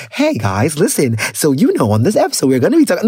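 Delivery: a light parody of a slick podcast intro; mock polished host. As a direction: lightly imitate a rehearsed, manufactured host opening. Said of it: "manufactured to come and give you some".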